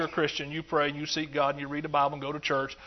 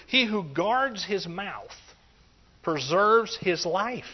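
slow scripture reading; much slower than usual. Shown as a demonstration. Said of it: "slow scripture reading".

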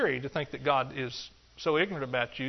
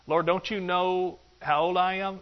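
petulant complaint; 4 semitones higher than usual. Acted. Voicing a petulant objection.

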